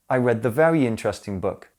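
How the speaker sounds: "the" said "thuh" before "very"; weak schwa in "the" before "very interesting"; "thuh" before consonant. Shown as a demonstration. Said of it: "listen ... so you can hear the difference".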